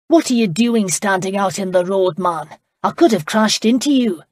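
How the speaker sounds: angry loud shout at a man in the road; a coachman snapping loudly after a near crash; furious driver. Acted. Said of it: "Their driver was furious".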